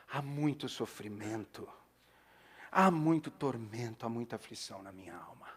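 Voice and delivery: heavy lament. Acted. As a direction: let the anguish sink down. Intensifying the lament.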